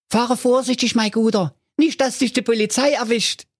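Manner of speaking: high goofy cartoon voice; Holger Honk's voice. A narrator's reading. Honk thinks about flowers for his mother, high goofy voice. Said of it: "winkte ihm dankbar hinterher und rief".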